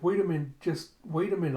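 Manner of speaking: eager wait-up call; urgent pleading. Retold or imitated. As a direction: call her back in a rush. Girl hurriedly stops Alita.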